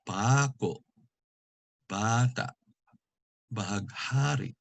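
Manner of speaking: PAKO, BATA, BAHAGHARI with next-to-last stress and stopped endings; glottal catch. Shown as a demonstration. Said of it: "a catch in the throat".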